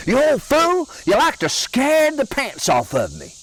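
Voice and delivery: wife scolding her husband after his prank, startled. Retold or imitated. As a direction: snap at him right after the fright. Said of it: "she was really startled".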